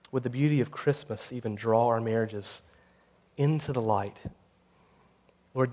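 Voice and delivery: solemn closing prayer, softening into the amen; earnest prayer. Acted. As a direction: pray aloud for the congregation, phrase by phrase.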